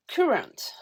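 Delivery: the English word current in a thick French accent, a bit hushed; English word current, clumsy French accent; bad English accent. Shown as a demonstration. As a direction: say current the way a French speaker would. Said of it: "mon accent anglais est pourri".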